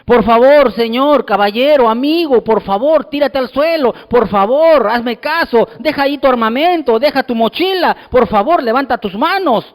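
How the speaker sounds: mock pleading politeness, lightly acted; a policeman coaxing a criminal with exaggerated courtesy; overly polite cop. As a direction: beg the criminal sweetly, the wrong way. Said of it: "el policía no le dice".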